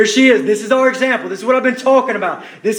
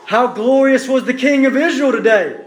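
mocking sarcasm. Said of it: "she says to David".

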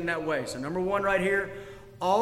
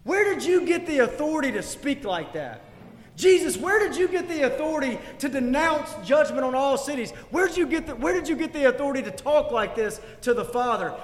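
imagined objector; 6 semitones higher, 3 dB louder than usual. Pretend. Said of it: "imagine somebody standing up and saying".

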